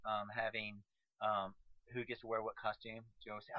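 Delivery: ordinary talk, nothing marked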